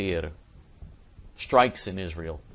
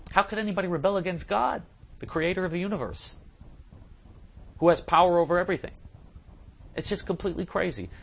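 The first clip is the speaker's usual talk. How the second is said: incredulous outrage; 9 semitones higher than usual. Real, not acted. Preacher rails against rebellion.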